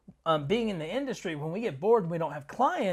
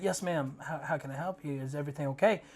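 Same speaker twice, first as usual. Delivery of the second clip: polite retelling; 4 semitones lower, 8 dB quieter, faster than usual. Retold or imitated. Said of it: "I was polite and nice".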